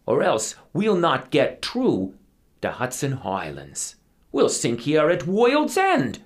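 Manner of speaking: put-on high, loud, accented crewman's warning; little Dutchman. A narrator's reading. Little Dutchman warning captain to tip hat, high urgent voice. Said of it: "the little Dutchman looks up and says".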